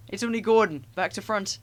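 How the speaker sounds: put-on jeering boys. A narrator's reading.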